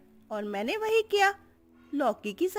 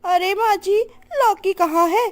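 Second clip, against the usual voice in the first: high, loud whining cry; loud high whine with a sob in it; whiny wail; 8 semitones higher, 8 dB louder than usual. Acted. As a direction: wail like a spoilt bride. Tuni whines for gourd.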